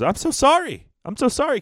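high-pitched mock South African accent; hammed-up South African "so sorry"; South African apology. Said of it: "South African accent apologizing".

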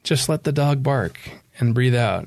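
calm, evenly paced instruction; guided meditation. Shown as a demonstration. Author guiding a reader through breathing, meditative. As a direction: lead the listener gently through a breath. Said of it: "a little bit of a guided meditation".

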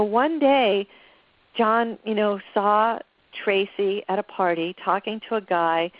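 ordinary delivery

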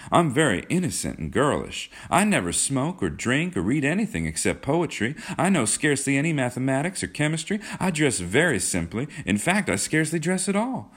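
put-on high-pitched, insistent girlish protest; persisting. A narrator's reading. Kismine insists to John she is innocent, high girlish pleading. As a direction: gush out the protest, high and emphatic. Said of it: "she persisted".

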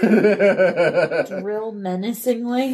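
slow, amused question; drawn out through a laugh; laughing disbelief. Real, not acted. Amused at the suggested action.

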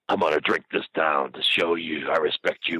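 slow, drawn-out declaration; mock solemn vow. Jake vowing his respect to the storyteller, slow and overblown. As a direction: imitate a wild man's grand slow proclamation. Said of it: "And he says".

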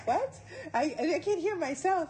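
lightly voiced own past confusion; a hint of bewildered self on a call; mock confusion. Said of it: "j'étais là".

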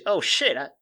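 hushed, disbelieving realisation that rises in pitch; a mock Joe muttering in shock at his own luck; dawning surprise. Imitating Joe, hushed and surprised he could win. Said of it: "he goes".

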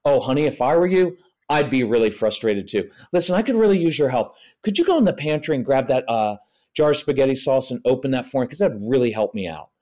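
earnest, mildly intense empathy; match the child's frustration a little, then briskly ask for help; acknowledging with intensity. Shown as a demonstration. Parent enlisting a frustrated child's help, with some intensity. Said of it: "acknowledging with intensity".

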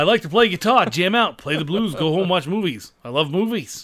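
lightly voiced Dangerfield shtick; a hint of Rodney Dangerfield. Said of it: "do a Dane Cook routine as Rodney Dangerfield".

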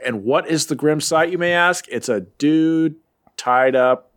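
announcer-style recap of the comic blurb; dramatic recap read. Acted. Podcast host reads the comic's blurb, hammed up. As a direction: read it like a bold comic narration box.

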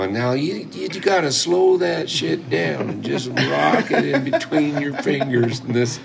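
put-on high, loud, drawn-out American old-timer; hammed-up American picker, stretching his words; American accent. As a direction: play the old coot instructor, slow American accent. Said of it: "I'm doing your American accent".

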